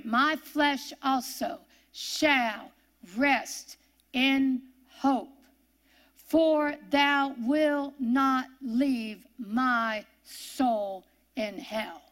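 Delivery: drawn-out solemn scripture reading, each word savoured; slow dramatic reading. Acted. Preacher to congregation, reading the psalm slowly and solemnly. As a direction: linger on every word like a psalm.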